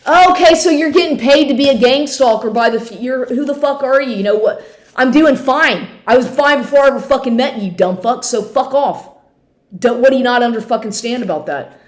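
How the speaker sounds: heated comeback to an unwanted note; angry retort. Retold or imitated. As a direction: snap back at him, fast and fed up. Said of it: "It's like".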